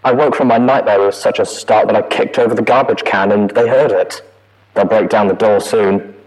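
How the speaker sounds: loud, frantic trapped voice; trapped and terrified, loud; panicked recording. A narrator's reading. Mare trapped, panicked log.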